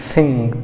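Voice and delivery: थिंग opening on an airy th, not a stop; native th sound. Shown as a demonstration. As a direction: say थिंग with tongue between teeth, air flowing out. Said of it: "कुछ था का उच्चारण होता है".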